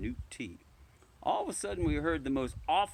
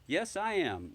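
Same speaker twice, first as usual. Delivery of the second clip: cross; 6 semitones higher, slower than usual. Acted. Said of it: "I replied crossly".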